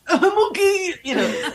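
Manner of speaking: high, laughing while tearful; laughing through tears. Retold or imitated. Author reassuring her husband, laughing tearfully.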